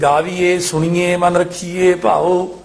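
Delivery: ਗਾਵੀਏ, ਸੁਣੀਏ ending in a close e; mistaken e endings. Shown as a demonstration. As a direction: demonstrate ਰੱਖੀਏ with a plain e instead of ai. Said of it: "ਇਹ ਵੀ ਬੋਲਣ ਵਿੱਚ ਗਲਤੀ ਹੋ ਜਾਂਦੀ".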